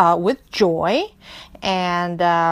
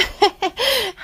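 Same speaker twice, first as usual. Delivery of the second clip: high chuckle; high laugh; 12 semitones higher than usual. Acted. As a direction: laugh again, higher. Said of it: "بازم خندید". (خندهٔ زیر)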